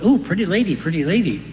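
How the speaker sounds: high, squawky parrot call. Retold or imitated. Parrot greets the lady who just uncovered the cage, high squawky voice. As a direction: ham up a parrot cooing at the lady. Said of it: "The parrot goes".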